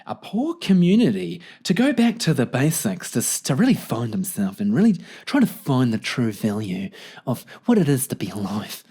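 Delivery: lightly put-on voice scoffing at a rich guy; hammed-up, gossipy commentary on a rich man; mocking onlooker. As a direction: put on a mock-impressed character voice. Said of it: "a really rich guy and he's like".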